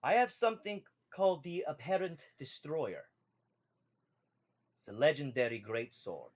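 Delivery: lightly voiced fish merchant making a pitch; a hint of a fishy salesman; fish man merchant. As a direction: present rare wares, phrase by phrase. Game master pitches sword as merchant.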